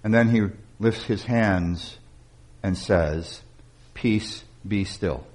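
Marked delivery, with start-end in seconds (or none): 3.9-5.3 soft, lightly voiced command for stillness; calm command. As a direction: hush the storm quietly, without forcing it. Jesus calms the storm.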